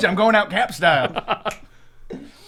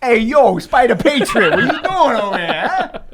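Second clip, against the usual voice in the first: put-on a wandering made-up street accent, a little louder; muddled put-on accent; 5 semitones higher, 4 dB louder, slower than usual. Player greeting Spider Patriot in a mixed-up put-on accent. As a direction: swagger through it in a vague tough-guy accent. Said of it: "I don't even know what accent this is anymore".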